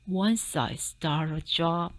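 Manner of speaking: firm, resolute dentist. Acted. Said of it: "said the dentist firmly".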